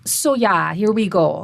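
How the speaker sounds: "yeah" as a Minnesotan "ya"; Minnesota accent. Retold or imitated. Linguist imitating caller Lynn, Minnesota accent. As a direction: echo a Minnesotan caller's "ya" and long o. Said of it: "She says".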